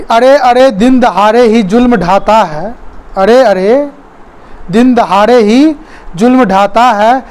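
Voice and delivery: measured, declaimed Hindi verse; poem recitation. Acted. Teacher reading a poem to viewers, verse recitation. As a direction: recite it line by line with a lilt.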